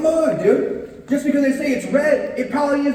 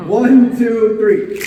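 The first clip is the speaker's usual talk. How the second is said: loud count; 3 semitones lower, 6 dB louder, much slower than usual. Real, not acted. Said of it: "Everybody snap on three".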